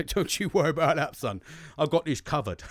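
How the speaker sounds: imitated dad slipping into Cockney; accidental Cockney accent. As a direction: put on a Cockney voice, badly off target. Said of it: "Why did I go Cockney?".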